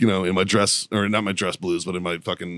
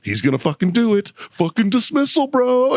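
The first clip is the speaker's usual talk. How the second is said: very high, climbing excited squeal; giddy excitement; 14 semitones higher than usual. Retold or imitated. Lawyer passing notes to client about dismissal, giddy excitement. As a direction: act out a giddy lawyer, pitch soaring.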